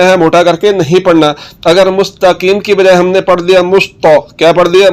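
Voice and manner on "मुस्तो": मुस्तो with a thick, rounded t; wrong heavy to. Shown as a demonstration. Teacher showing learners the mistake, heavy to. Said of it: "तो ये तो पढ़ा जा रहा है".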